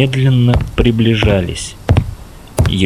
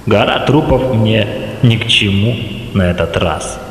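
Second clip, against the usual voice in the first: dark lord. Acted. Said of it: "зловещий голос".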